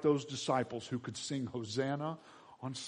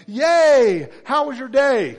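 loud, high, gushing cheer; mama's big squealing welcome; excited mama; 12 semitones higher, 15 dB louder, much slower than usual. Acted. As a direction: greet your kid with over-the-top delight. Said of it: "your mama's like".

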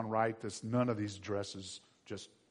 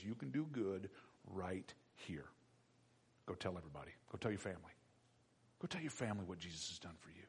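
whispered, gentle instruction; Jesus quietly sending the man home; soft whisper; 5 semitones lower, 13 dB quieter, faster than usual. Acted. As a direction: breathe it close and low. Jesus answers the healed man.

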